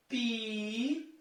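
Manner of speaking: "Piauí" softly split into separate syllables. Shown as a demonstration. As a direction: sound out "Piauí" slowly with gaps between syllables. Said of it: "olha só a separação".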